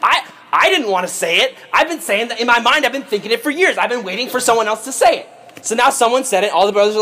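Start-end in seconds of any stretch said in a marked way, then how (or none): 0.0-5.3 high-pitched, gushing relief; acted-out giddy eagerness; eager agreement. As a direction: blurt it out like a long-held secret. Brothers eagerly agree to the plot.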